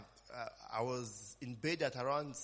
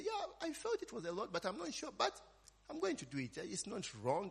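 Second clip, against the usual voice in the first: mock believer's voice; 8 semitones higher, 3 dB quieter than usual. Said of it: "I say".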